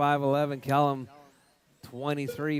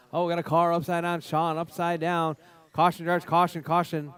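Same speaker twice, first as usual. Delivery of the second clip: louder alarmed warning; urgent caution call; 2 semitones higher, 4 dB louder than usual. Real, not acted. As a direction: call the rollover fast. Car flips, warning drivers.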